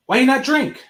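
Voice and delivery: high, loud put-on Asian accent; mock Asian accent. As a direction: imitate a woman pushing drinks in an Asian accent. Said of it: "I know I got the wrong accent".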